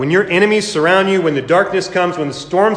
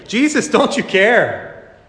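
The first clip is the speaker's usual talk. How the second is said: mock panic; 3 semitones higher than usual. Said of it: "and they're panicking".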